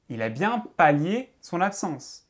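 slow, careful correct sentence; slow correct version. Shown as a demonstration. Teacher showing viewers the correct phrasing, slow and careful. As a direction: spell out the right form slowly. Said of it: "mais dites juste pallier".

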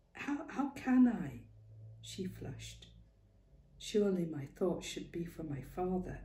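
lightly voiced worried young Clara; a hint of a frightened young mother pleading; anxious young woman. Clara pouring out her worries to Ma, anxious.

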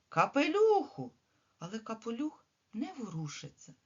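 put-on lively, expressive reading to children; story reading for children. A narrator's reading. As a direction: read it like a tale for little kids. Teacher reads story aloud.

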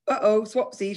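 high, breezy uh-oh; cheerful. A narrator's reading. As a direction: shrug it off brightly.

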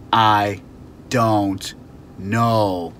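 loud, clipped-off annoyed words; fed up with the questions. Shown as a demonstration. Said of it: "respond back to them with annoyance".

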